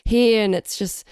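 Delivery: hoarse with a sore throat; rough, croaky cold voice; raspy sick voice. Real, not acted. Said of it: "my raspy sounding voice".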